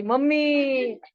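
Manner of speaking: little sister calls out to mum in mock protest; child's hammed-up cry for mummy; loud call. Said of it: "जोर से चिल्लाई".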